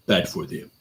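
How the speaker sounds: put-on Russian accent, terse; clinching movie line in a Russian accent. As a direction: imitate a Russian tough guy. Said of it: "speaking with a Russian accent".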